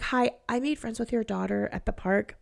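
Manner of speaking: put-on soft, timid kid asking; a hint of a nervous little girl. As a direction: voice a shy child asking politely. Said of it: "you could tell she was so nervous".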